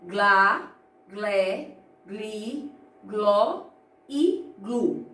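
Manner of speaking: "Glá, glé, gli, gló e glu" spoken as separate, distinct syllables; teacher modelling "Glá, glé, gli, gló e glu" one by one; clear syllable drill. Shown as a demonstration. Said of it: "o som que o quadro apresenta".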